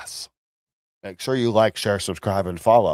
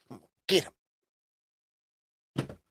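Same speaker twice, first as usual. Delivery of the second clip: slow, drawn-out mock villain; hammed-up threat, stretched out; 1 mock menace; 5 semitones higher, 6 dB quieter, much slower than usual.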